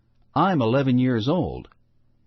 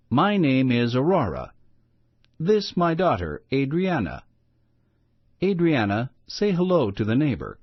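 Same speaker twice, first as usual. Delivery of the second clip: put-on a touch higher, lightly accented friendly mother; mild accent, smiling introductions; friendly best English; 3 semitones higher than usual. Mother introduces herself and her daughter with a smiling, light accent. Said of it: "in her best English".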